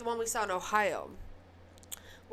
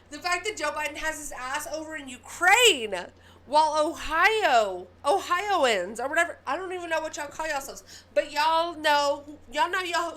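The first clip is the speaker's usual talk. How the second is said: angry outburst; 2 semitones higher, 8 dB louder than usual. Real, not acted. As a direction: shout it, barely keeping it together. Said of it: "and I'm getting mad".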